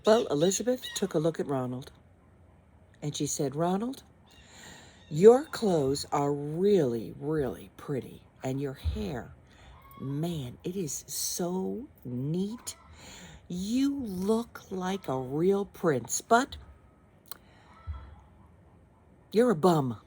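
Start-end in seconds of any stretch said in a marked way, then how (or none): 3.6-16.2 mock praise. Elizabeth mocking Ronald. 16.2-20.0 louder, cutting punchline; blunt put-down. Acted. Elizabeth's put-down.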